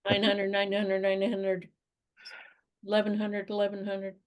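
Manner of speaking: light mock auction chant of bids; auctioneer. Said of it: "Feel like an auctioneer".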